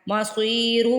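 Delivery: مصیر with a thick ص and long ي; heavy sad, stretched. Shown as a demonstration. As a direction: draw out مصیر slowly. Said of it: "صاد کو یہاں پہ کھینچ کے". (مصیر میں صاد موٹا، کھینچ کر)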